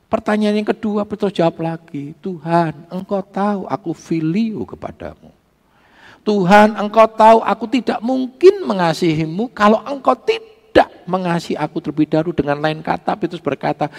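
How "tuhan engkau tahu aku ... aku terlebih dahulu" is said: high, forceful voice imitating Peter; emphatic retold plea. Peter answers Jesus a second time, emphatic pleading. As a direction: press the answer louder and higher.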